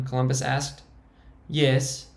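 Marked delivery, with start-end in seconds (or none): 1.5-2.1 much higher, squeaking; squeaky high voice. Acted. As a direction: defend the hideout in a high squeak. Frankie's held high voice.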